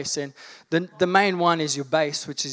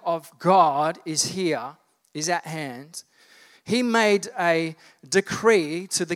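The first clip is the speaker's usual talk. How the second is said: preaching. Acted. Preacher rallying the congregation about spiritual warfare, in full sermon voice.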